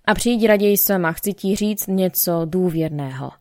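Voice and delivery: insistent request, slowing toward the end; emphatic. A narrator's reading. Olga invites her friend to come alone, emphatically. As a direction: add it with emphasis, then ease off. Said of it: "s důrazem dodala".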